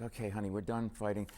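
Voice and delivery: lightly acted peace offer to a partner; calmed-down spouse. Spouse making peace after a fight, mildly soothing. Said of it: "I'm gonna calm down".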